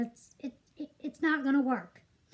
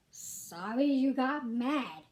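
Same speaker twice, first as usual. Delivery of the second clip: slow, soft, dismissive mock apology; mildly sneering imitation of a grudging apology; mocking fake apology; 2 semitones lower, 4 dB quieter, much slower than usual. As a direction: mimic a half-hearted non-apology, drawn out. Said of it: "That's not how you apologize".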